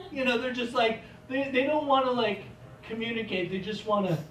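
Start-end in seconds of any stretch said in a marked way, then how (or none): none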